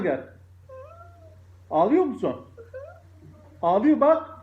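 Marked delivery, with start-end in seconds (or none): 3.6-4.3 excited teasing. Real, not acted. Mother teasing her crying child to dad, high and excited. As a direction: show the crying off to dad, pitched up.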